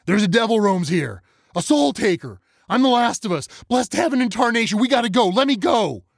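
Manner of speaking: put-on a boy screaming in blind terror; hysterical terror. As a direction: hysterical boy raving about a devil. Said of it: "nearing hysterics, thrashing against the arms".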